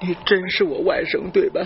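breathy whisper, leaning in to check; hushed doubt. Acted. Old grandfather whispering to his grandson, doubtful. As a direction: whisper the question as if afraid to hope.

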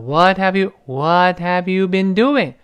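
slow, linked "what have you been doing"; linked model reading. Shown as a demonstration. Teacher shows how the question sounds, "what have you" linked. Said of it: "这么一个声音".

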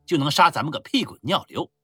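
loud swaggering army commander; boastful rough general. Acted. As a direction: brag loudly over wine. Drunken general boasting at a feast. (粗豪自大的将军大声吹嘘)

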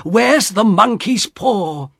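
high, drawn-out anxious question; frantic husband searching; urgent thought. A narrator's reading. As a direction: ask yourself in rising panic. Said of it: "he thought".

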